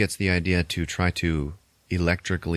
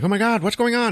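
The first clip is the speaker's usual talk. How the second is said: much higher, louder hammed-up shriek; mock crew alarm; 4 dB louder than usual. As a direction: squeal like a startled crowd. Crew reacting in alarm, retold.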